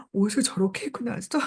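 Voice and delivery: lightly acted sneering gossip; snickering contempt. Townspeople mocking her outfit, snickering. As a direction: let a suppressed snicker trail the jibe. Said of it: "약간 남을 깔보면서 크크크".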